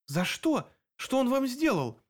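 rising, alarmed asking; horrified, pitch climbing high; horrified question. A narrator's reading. Narrator asks Greta in horror, alarmed. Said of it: "с ужасом спросила я".

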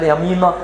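مينا with a broad final "aa"; heavy open A closing مينا; Coptic pronunciation. Shown as a demonstration. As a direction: say مينا as "MEE-nah", Coptic style. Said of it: "ده بيقولها بالقبطي كده".

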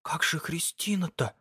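gasping whisper in surprise; breathless whisper. A narrator's reading. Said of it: "шепнула, точно задыхаясь".

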